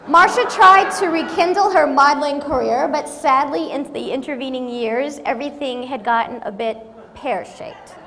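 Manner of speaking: high, loud mock announcer read; mock-dramatic reading of her own bio; reading her bio aloud. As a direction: ham up the embarrassing bio. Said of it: "this is what they put up of me in my bio".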